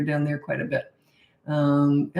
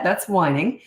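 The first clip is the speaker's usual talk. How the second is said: ordinary delivery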